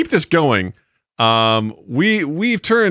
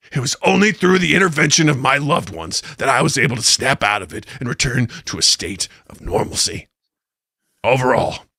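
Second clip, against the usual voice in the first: lightly voiced pundit, settling lower; Alex Jones impression; 4 semitones lower than usual. Co-host recounts recovering from the cartoon, lightly voiced pundit sinking in pitch. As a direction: bring the mock rant down to a grave testimony. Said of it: "read it in Alex Jones' voice".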